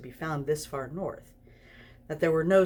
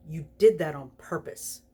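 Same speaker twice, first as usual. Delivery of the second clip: accusing. Acted. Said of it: "he accused".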